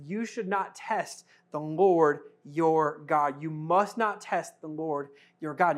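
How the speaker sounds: slow solemn quote. Acted. Jesus says it solemnly.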